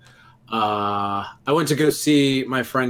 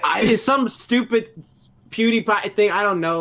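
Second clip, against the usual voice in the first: exasperated exclaim; 7 semitones higher, 4 dB louder than usual. Real, not acted. Embarrassed exclaiming.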